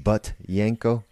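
Butyenko said slowly, each syllable clear; slow careful pronunciation. Shown as a demonstration. Teaching listeners a name, slow careful pronunciation. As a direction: spell out Butyenko with your voice. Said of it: "That's how you spell it".

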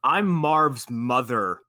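slow, loud, drawn-out announcement; mock reveal. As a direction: announce it grandly, slowly. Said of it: "she's like".

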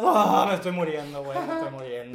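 high, hammed-up whine of someone starving; mock dying of hunger. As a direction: wail as if perishing from hunger, jokingly. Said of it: "si no se saltan una comida".

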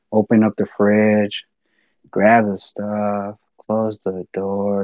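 slow, drawn-out steps of the story; mimicking a sluggish worker, slowed right down; acting out slowness. Shown as a demonstration. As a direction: drag each action out to show how slow he was. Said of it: "he was moving so slow".

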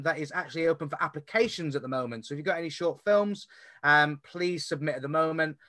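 breathless, rushing to finish; running out of air while talking; out of breath. Real, not acted. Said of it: "Whew, I'm out of breath".

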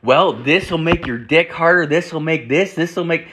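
Viagra salesman. Retold or imitated. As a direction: lightly play a salesman listing the perks. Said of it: "like, a Viagra salesman".

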